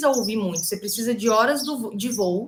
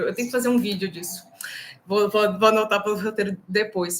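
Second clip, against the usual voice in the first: whispered aside. Real, not acted. Note to herself aside.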